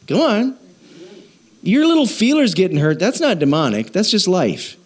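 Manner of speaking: usual speaking voice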